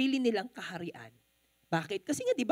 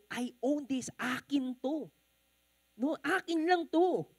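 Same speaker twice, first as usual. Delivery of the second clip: possessive people; 3 semitones higher, slower than usual. Retold or imitated. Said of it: "It's like that they were saying".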